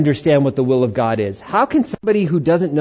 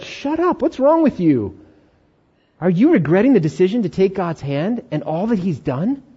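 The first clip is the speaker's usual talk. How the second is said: a touch of a stern inner scold; 4 semitones higher than usual. Retold or imitated. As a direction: snap at yourself, lightly. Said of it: "slap the gym".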